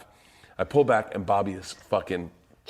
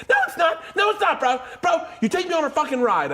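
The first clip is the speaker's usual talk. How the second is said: high-pitched whining; high whiny protest. Retold or imitated. Bobby quoted protesting.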